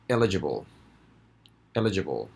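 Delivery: eligible said as EL-i-gi-ble, stress on the first syllable; EL-igible stressed first. Shown as a demonstration. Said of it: "so we say".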